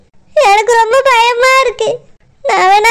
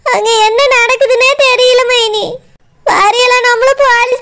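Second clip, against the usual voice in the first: tearful. Acted. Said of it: "நீ எதுக்கு இப்படி அழுதுட்டு இருக்க".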